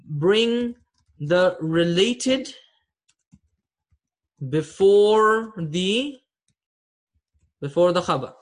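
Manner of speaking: "before" drawn out slowly; slow drawn-out teaching stress; slow emphasis. Shown as a demonstration. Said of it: "So that means I".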